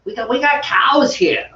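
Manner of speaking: mock Long Island accent. Speaking as a Long Islander, mock Long Island accent. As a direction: play the Long Islander proud of cows. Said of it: "we're from Long Island".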